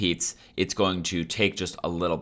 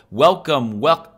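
imitated echo; 7 semitones higher, 7 dB louder than usual. Shown as a demonstration. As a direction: echo repeat, cut off abruptly. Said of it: "it'll go".

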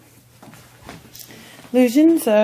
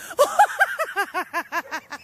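high-pitched giggle; 9 semitones higher than usual. Real, not acted. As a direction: giggle at the dog. Laughing at dog.

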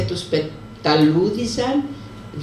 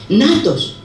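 mild mock shout; 5 semitones higher, 4 dB louder than usual. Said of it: "φώναξε πάλι η Εφεντίνα".

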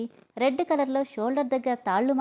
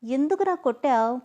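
tearful whine; 3 semitones higher, 3 dB louder than usual. Acted. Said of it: "ఏడుపు మొహంతో అడిగింది".

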